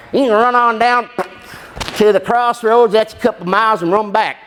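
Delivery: a light Southern Illinois twang; Southern Illinois accent. Retold or imitated. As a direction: imitate an uncle from Southern Illinois giving directions. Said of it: "from the Southern Illinois. So, like".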